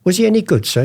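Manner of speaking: high-pitched naive question; ignorant dealer act. Acted. Forger quizzing the auctioneer, feigned ignorance. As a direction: play clueless, asking up high. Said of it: "we were two ignorant antique dealers".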